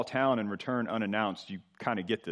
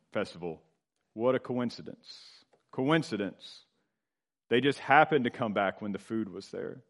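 mock-innocent, with a smile; knowing smile. Preacher voicing the writer's wink at coincidence, knowing smile. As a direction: play up the supposed coincidence, tongue in cheek. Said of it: "You can almost hear Samuel smile".

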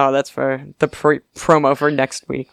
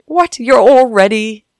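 high startled questioning; baffled and indignant, much higher and louder; confused guard; 6 semitones higher, 4 dB louder than usual. Retold or imitated. Guard baffled at extra people coming in, startled.

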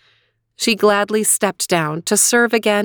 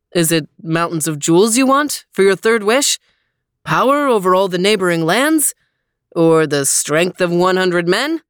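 booming genie voice; grand, eager magic genie; 3 dB louder than usual. Acted. Genie speaks in story.

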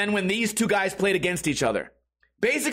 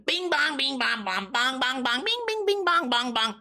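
high mocking chant that jumps higher midway; goofy mimicry; 7 semitones higher than usual. Comic mocking two grown men at pool, goofy high chant. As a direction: imitate silly bouncing-ball chatter.

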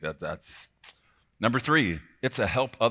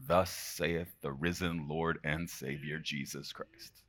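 solemn recitation; 2 semitones lower, 5 dB quieter than usual. Real, not acted. Preacher reciting the risen Lord's words, solemn and soft. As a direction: let the verse settle quietly, slowing at the close.

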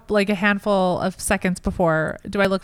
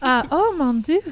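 put-on French accent; 2 semitones higher than usual. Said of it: "This is a good accent".

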